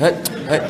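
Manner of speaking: short wordless huffs, as if shooing a cat; imitated shooing grunts. Son shows how his father calls him, curt shooing grunts. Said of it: "dia panggil macam halau kucing je".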